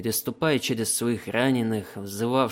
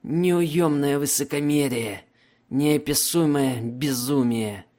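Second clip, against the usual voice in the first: slow wounded prisoner voice; 4 semitones higher, slower than usual. Acted.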